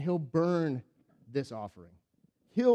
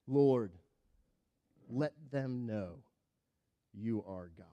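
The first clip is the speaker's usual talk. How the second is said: quiet prayer; 4 semitones lower, slower than usual. Acted. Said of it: "he says a prayer".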